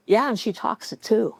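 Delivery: lines said through a small laugh; amused, chuckle as you speak; laughing reply. Retold or imitated. Friend telling the policeman with a laugh.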